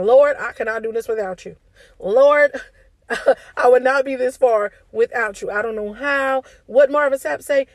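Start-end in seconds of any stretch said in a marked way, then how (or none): 0.0-6.4 fervent prayer. Retold or imitated. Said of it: "that is literally me saying".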